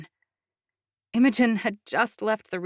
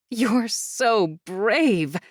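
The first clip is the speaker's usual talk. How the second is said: admiring praise; 3 semitones higher, 3 dB louder, much slower than usual. Acted. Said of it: "Doya praised".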